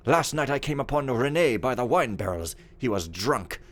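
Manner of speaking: aggrieved steward venting about servants, lively swings in pitch; haughty, scornful steward. Acted. Steward complaining in his journal about servants, haughty and indignant. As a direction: rant like a pompous, disgusted head servant.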